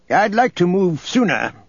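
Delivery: careful objection. A narrator's reading. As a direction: put it carefully to a superior. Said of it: "Thanos said carefully".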